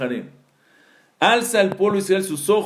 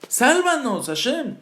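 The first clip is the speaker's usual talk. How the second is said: higher, stumbling mock plea; hammed-up begging with stammered repeats; retold desperate prayer; 4 semitones higher than usual. Moshe prays to Hashem to save them, acted desperate plea. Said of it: "estaba diciendo tefilá".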